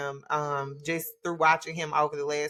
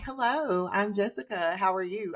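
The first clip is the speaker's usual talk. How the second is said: prim professional greeting; 3 semitones higher than usual. Shown as a demonstration. Streamer mocking her own formal voice for viewers. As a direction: put on a stiff professional host voice. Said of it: "I guess he mean don't talk like that".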